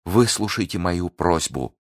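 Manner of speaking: high, urgent begging; desperate Milady, pleading. Acted. Prisoner begging her guard for a knife, high and desperate. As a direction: beg insistently, pitch held high.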